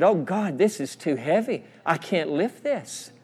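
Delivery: quiet, burdened plea; a softly re-enacted cry to God, slowing under the weight; retold crying out. Preacher retelling his prayer under guilt, subdued crying out. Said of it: "I cried out".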